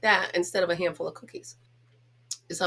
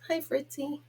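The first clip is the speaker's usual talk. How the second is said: higher, softer greeting; 6 semitones higher, 5 dB quieter than usual. Real, not acted. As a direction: coo a soft hello to the dog. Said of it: "I know I'm a goof with him".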